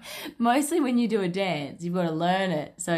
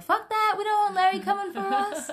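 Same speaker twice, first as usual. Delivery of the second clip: put-on high kid voice. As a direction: squeak it out like a panicky kid. Kids voiced in story.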